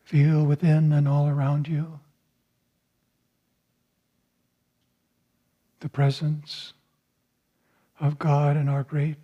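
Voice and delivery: soothing instructions to lift the gaze; guided meditation. Acted. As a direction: guide the listeners gently inward.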